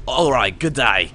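lightly hammed-up Australian accent. Game player introducing himself as Ryder White, in an Australian accent. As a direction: introduce yourself as an Aussie hero, accent uneven. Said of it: "How's my Australian accent?".

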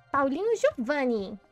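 mother scolding. Acted. Mother full-name scold.

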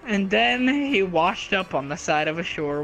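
mock narration.

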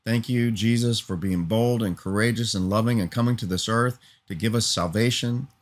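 a sincere, steady spoken prayer. Real, not acted. Preacher turns from his hearers to pray to Jesus, sincere prayer. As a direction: talk to God, thankful and earnest. Prays aloud to close.

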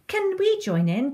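high, eager calling question. A narrator's reading. Clarice asking to join the game, eager call. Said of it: "calls Clarice".

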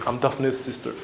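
small, very soft mock-meek answer; intimidated reply. Brother answering the serious gangster, intimidated reply. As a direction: shrink your voice as you introduce yourself. Intimidated, fumbles his introduction.

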